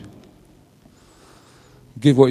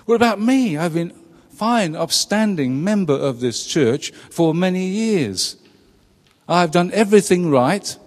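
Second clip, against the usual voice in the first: put-on whiny older son; 4 semitones higher than usual. Older son complaining, voiced.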